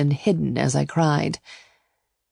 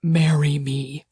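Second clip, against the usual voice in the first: slow, heavy groan; groaned proposal; slower than usual. A narrator's reading. Dizzy lovers on the chaise, he proposes with a slow groan. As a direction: draw it out as a groan. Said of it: "he groaned and said".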